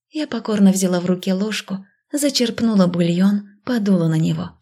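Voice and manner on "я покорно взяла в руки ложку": ordinary delivery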